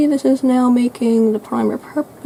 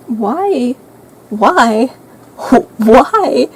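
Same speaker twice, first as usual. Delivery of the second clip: repeated cries of why, building louder; exasperated why; 7 dB louder, much slower than usual. Real, not acted. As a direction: wail it in mounting dismay. Laments her makeup mistake.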